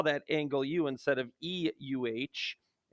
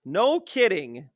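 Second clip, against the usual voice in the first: slow, deadpan repeat; dry no kidding; 2 semitones higher, slower than usual. Acted. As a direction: say it flat and slow, unimpressed. Repeats the phrase slower and drier.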